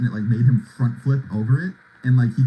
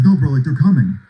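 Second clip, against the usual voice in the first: panicked; 5 dB louder than usual. Retold or imitated. Paranoid friend insists.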